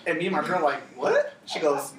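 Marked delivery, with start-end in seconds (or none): 1.0-1.3 high squeaked disbelief; shocked what. Retold or imitated. Friends hearing about the tooth, shocked high squeak. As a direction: gasp it out in shock.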